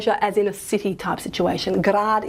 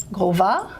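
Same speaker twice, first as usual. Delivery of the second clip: "golva" with the weight on "va"; stress on second syllable. Shown as a demonstration. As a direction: say "golva" as gol-VA, rising at the end. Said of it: "stress on the second syllable".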